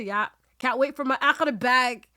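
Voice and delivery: excited joking boast; playful mock quote. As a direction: hype it up like counting rewards. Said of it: "we can go every day and say".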